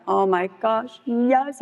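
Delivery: breathless-with-joy reenactment, mildly hammed-up; retold excitement. Wife accepts husband's dinner invitation, acted excitement. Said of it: "I'm, like, jumping up and down".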